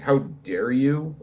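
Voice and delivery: slow, mildly angry imitation; mock indignation. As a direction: imitate an outraged commenter, drawn out. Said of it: "really angry".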